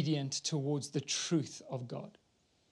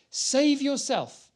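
slow, higher mock plea; a hint of the jeering criminal; railing criminal, read; 7 semitones higher, much slower than usual. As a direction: drag out the taunt. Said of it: "railed at him".

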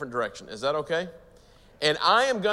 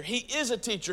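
"is" lifted high to contrast with "was"; stress on IS; 6 semitones higher, 4 dB quieter than usual. Real, not acted. Preacher insisting to the congregation Jesus still teaches, stress on "is". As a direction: lean on the word "is".

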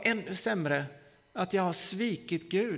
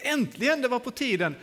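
higher-pitched "at last" exclamation; retold exasperated relief; acted relieved outburst; 5 semitones higher than usual. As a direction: burst out as if long kept waiting. Acted reaction to God finally answering.

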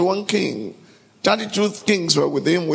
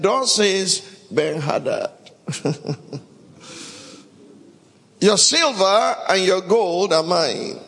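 boastful king; 3 semitones higher than usual. Acted. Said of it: "saw himself in their frame and said".

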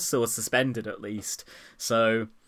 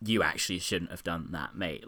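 lower, softer quoted reproof; imitating a quiet telling-off; quiet aside; 7 semitones lower, 6 dB quieter than usual. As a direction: say it quietly, retelling a discreet word. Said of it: "kind of quietly says to him".

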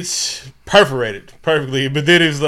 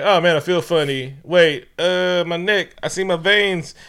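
freaking out; 6 semitones higher, 6 dB louder than usual. Retold or imitated. Cameraman feeling the serum kick in, building to a much higher, louder mock panic.

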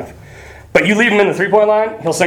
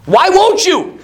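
exasperated plea; 10 semitones higher, slower than usual. Retold or imitated. Aggressor's baffled plea voiced.

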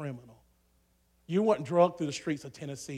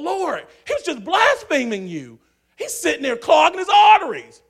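much higher, shouted exasperation; outraged shout; 12 semitones higher, 12 dB louder than usual. Retold or imitated. Preacher retelling his indignant complaint to the Lord, shouting. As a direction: yell it up at the Lord.

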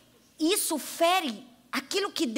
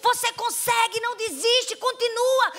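cheering father; 6 semitones higher, slower than usual. Retold or imitated. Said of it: "pai na arquibancada dizendo".

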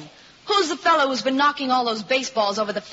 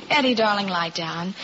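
tender; 5 semitones lower than usual. Acted. Olivia calming Eddie after his confession, tender. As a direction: settle him gently.

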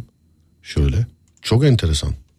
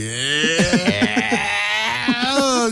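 imitated sneeze; 8 semitones higher than usual. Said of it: "diye böyle".

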